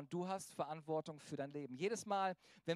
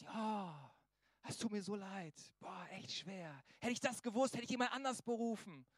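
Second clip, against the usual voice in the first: mock pity. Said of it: "Nein, nein, er sagt Folgendes".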